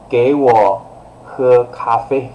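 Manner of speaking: firm, deliberate command; very strong tone. Shown as a demonstration. Teacher ordering coffee to be drunk, very strong. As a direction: order it in two firm chunks. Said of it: "using a very strong tone".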